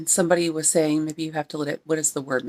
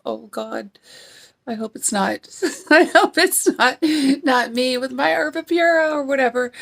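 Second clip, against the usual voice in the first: laughing worry; 7 semitones higher than usual. Retold or imitated. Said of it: "I thought".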